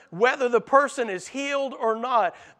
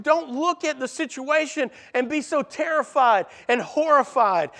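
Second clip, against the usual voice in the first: higher, louder, insistent nagging; pushy doubter; 4 semitones higher, 4 dB louder than usual. Acted. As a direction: pressure them to quit. The doubting world pressures believers.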